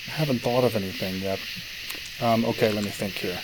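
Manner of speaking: talking around a pipe stem; pipe in mouth. Real, not acted. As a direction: speak with a pipe between teeth. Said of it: "I'm puffing on my pipe".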